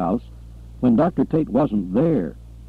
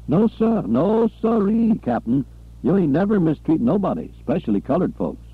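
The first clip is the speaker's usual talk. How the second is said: higher, anxious placating servant voice; a pitched-up nervous yes-sir voice; nervous eager servant; 7 semitones higher than usual. Acted. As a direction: scramble to reassure the boss.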